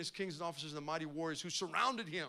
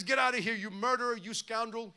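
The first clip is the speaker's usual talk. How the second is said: a half-hearted mock yell, louder at first; mild retold shout; 4 semitones higher, 5 dB louder than usual. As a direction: hurl the insults, fading by the end. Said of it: "he shouted at David".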